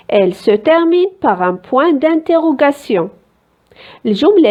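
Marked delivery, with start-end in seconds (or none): 0.1-3.1 slow, deliberate rule for pupils; slow explaining. Shown as a demonstration. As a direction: lay out the rule word by word. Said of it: "La phrase interrogative".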